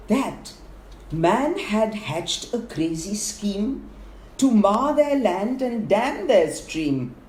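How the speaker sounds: animated fable narration, drawing out the scheme; verse storytelling. A narrator's reading. Narrator passing on a bird's rumour, expressive verse storytelling. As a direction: tell the rumour as lilting rhymed story.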